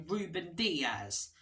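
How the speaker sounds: slow, lightly Italian-tinged Ruben Dias; a hint of Italian. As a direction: say the name with a trace of Italian. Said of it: "saying it like an Italian".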